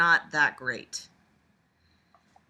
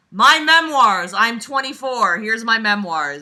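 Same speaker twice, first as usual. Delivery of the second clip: mock vapid memoir voice; 5 semitones higher, 13 dB louder than usual. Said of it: "Everything else was just like".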